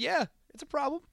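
quiet, polite yeah it's a problem; mild and respectful. Retold or imitated. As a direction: say it gently with no edge. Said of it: "He wasn't, he wasn't disrespectful".

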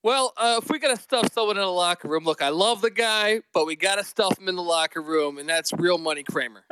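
lispy, muffled phone audio; lisp over bad phone line. Real, not acted. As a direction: talk with a slight lisp. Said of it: "you have a little lisp going on".

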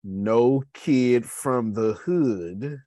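put-on "no kid from the hood" drawn out very slowly; air-quote emphasis. Shown as a demonstration. Telling viewers his own doubt, slow mock quote. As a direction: stretch every word as a mock quote. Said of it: "air quotes again".

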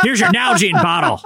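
high-pitched hammy begging; squealing mock plea. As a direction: shriek no like a dragged-off prisoner. Pleading convict continues.

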